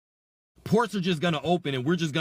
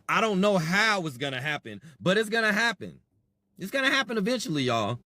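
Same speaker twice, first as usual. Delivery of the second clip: sarcastic, climbing higher and faster; mock optimism; 4 semitones higher than usual. Vlogger mocking passive viewers, sarcastic rising sing-song. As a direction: sneer the hope up into a sing-song.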